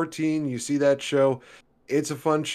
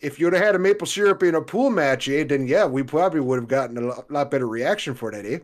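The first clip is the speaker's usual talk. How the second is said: put-on Canadian accent like Mister Fretz; 5 semitones higher than usual. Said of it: "that was a good impression".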